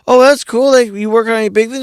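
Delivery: high, keen retold question; impressed acquaintance. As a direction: imitate eager small talk, pitched well up. Acting out impressed small talk.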